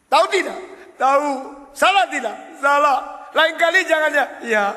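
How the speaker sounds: high, loud lecturing question; scolding preacher. Acted. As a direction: quiz him sharply, high and loud. Scolding drunk, drunk answers.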